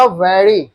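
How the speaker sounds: VERY drawn out slowly with a clear v; correct v in very. Shown as a demonstration. Teacher demonstrating to class how very starts, slowly modelled. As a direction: stretch "very", starting on v. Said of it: "this is not very good".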